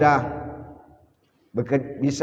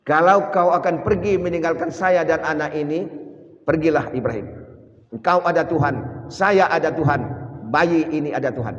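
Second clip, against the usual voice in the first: resolute wife; 3 semitones higher than usual. Retold or imitated. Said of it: "Apa kata Siti Hajar".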